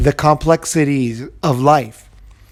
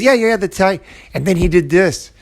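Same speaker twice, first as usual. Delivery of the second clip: a hint of an eager child, higher; kid excited; 4 semitones higher than usual. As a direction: kid chiming in with a happy memory. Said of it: "And then he says".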